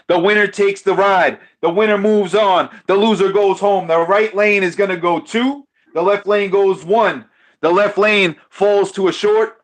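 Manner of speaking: live race commentary; play-by-play. Acted. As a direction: call the race like an announcer. Calls the dice race live.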